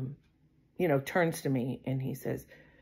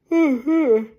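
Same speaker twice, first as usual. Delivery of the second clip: long weary sigh out loud; heavy sigh; 11 semitones higher, 8 dB louder than usual. Real, not acted. Telling viewers about the date, weary sigh. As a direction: let out a tired sigh. Tired sigh mid-story.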